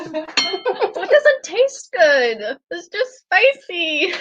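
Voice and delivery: slow strained words through heat; mouth full of hot food. Real, not acted. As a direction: speak past a burning tongue. Burning mouth after the sauce.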